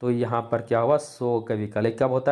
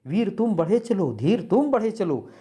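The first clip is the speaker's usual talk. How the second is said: higher-pitched, rousing march verse; spirited heroic recital; 6 semitones higher than usual. Shown as a demonstration. Teacher contrasting heroic verse with grief, spirited and high. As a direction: urge them onward with zest. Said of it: "उत्साह का भाव आ रहा है".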